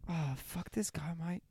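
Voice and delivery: laid-back mock Aussie bloke; light put-on Australian accent. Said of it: "talk like a fucking Australian".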